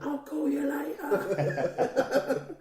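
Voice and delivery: slow, high, plummy mock posh accent through laughter. Posh student answering a call, mock posh accent slowly. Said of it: "he's got a really posh voice".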